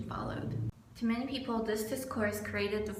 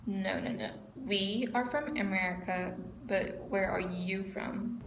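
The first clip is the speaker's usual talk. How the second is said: put-on Spanish accent; slower than usual. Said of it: "in this really thick Spanish accent".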